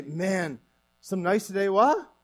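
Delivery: Newfoundland greeting, lifting sharply on the closing tag; casual Newfie small talk with a rising tag; Newfie accent. Shown as a demonstration. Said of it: "do the Newfie accent right".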